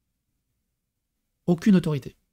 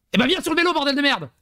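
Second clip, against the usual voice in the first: exasperated swearing; 8 semitones higher, faster than usual. Retold or imitated. Father scolds child onto bike.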